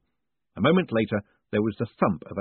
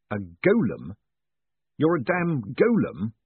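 shocked disbelief; 4 semitones higher, slower than usual. Acted. Moist shocked at golem.

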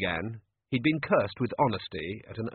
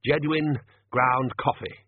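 firm; 3 semitones higher, 4 dB louder, slower than usual. Acted. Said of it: "said the manager firmly".

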